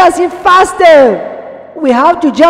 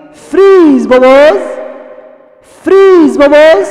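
commanding call; slower than usual. Shown as a demonstration. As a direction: call out firmly, as an order to stop. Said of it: "Now say".

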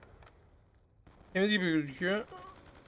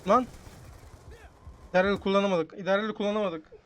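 frustrated; 3 semitones higher, 7 dB louder than usual. Real, not acted. Frustrated gamer outburst.

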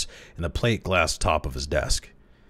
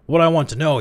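much higher, louder burst; exploded; 9 semitones higher, 6 dB louder, faster than usual. A narrator's reading. The old chairman explodes at the young clerk, loud. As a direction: blow up at him. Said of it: "he exploded".

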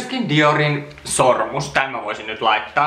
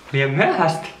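repeating the phrase a little higher in disbelief; wait, what, too late; surprised echo; 4 semitones higher than usual. Real, not acted. Echoing the spooky letter back in surprise.

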